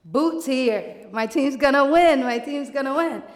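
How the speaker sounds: loud swaggering boast; mock cocky bar entrance; cocky brag. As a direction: strut in and gloat to the room. Strutting into bar with attitude.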